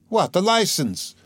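slow, high wail. Acted. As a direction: wail it in disbelief. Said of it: "wailed Katerina Ivanovna".

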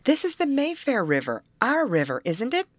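lifted, exclaiming read; excited cry. A narrator's reading. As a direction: cry out the happy discovery. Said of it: "cried Betty".

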